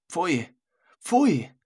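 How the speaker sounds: host shouting down a preacher, scornful; indignant outcry. Acted. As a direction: cry out in scornful protest. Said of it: "rief jetzt Fleisches Sicherheit dazwischen".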